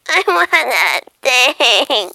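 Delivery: loud, drawn-out whine; whiny wanting. Acted. Cat wanting the thing it can't catch, whining. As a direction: whine it slowly in frustration. Cat failing to get butterfly.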